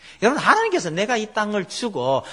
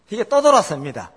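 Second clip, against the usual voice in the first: ordinary talk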